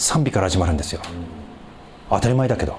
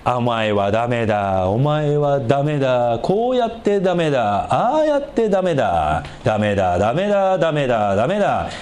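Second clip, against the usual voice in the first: inner critic voice; 3 semitones lower than usual. Retold or imitated. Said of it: "いつも聞いてる".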